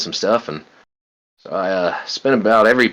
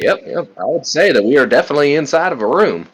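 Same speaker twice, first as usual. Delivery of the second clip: dry deadpan character voice; 5 semitones higher than usual. Retold or imitated. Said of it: "Graham looks at you and goes like".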